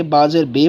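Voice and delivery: "با زیر بے" ending on bay; learners' wrong reading. Retold or imitated. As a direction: quote the mistaken "با زیر بے", ay instead of ee. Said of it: "کچھ نے کہا کہ".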